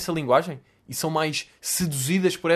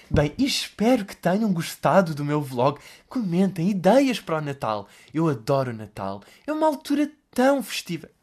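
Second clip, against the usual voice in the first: imitating Olivia's vlog voice. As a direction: mimic a TV host signing off a vlog. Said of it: "Ela fala, tipo". (imitação leve da voz falsa da Olivia no vlog)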